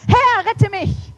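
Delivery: high, loud, slow cry; cry for help. Acted. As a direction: cry out as you sink. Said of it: "schrie er und sprach".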